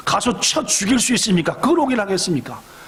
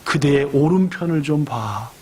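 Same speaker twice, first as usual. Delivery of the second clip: calm heavenly voice; 5 semitones lower than usual. Acted. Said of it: "그 멋진 분이 말하더래요".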